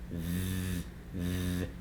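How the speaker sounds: a held, quiet buzzing "th-"; isolated voiced TH. Shown as a demonstration. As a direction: hum "th-" with tongue tip between the teeth. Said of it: "that's the voiced T H".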